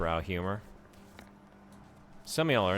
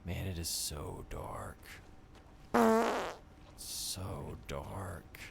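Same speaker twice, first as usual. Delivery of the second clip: whispering; 7 dB quieter, slower than usual. Real, not acted. Dark prison, afraid.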